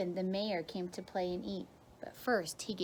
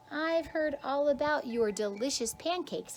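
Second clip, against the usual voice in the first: mayor's praise; 6 semitones higher, 4 dB louder than usual. A narrator's reading. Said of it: "he said".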